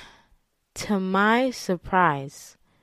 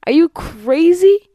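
high, loud, slow mock outrage; retold incredulous protest; 11 semitones higher, 8 dB louder, slower than usual. To boyfriend urging the next step, loud incredulous retort. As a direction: stretch it out in hammed-up disbelief.

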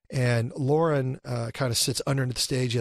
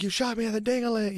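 mock whine; 7 semitones higher than usual. Handcuffed actor to his partner on set, silly high whine. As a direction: lift the voice into a silly whine on ding-a-ling. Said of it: "I'm like".

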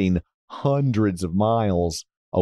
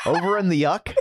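laughing mock uck; 7 semitones higher than usual. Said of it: "he calls the U K uck".

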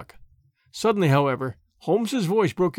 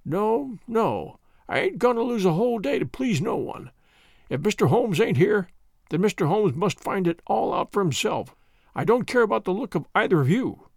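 put-on stubborn old sailor; 3 semitones higher than usual. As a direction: dig in your heels like a grumpy old salt. Old man refuses to wait.

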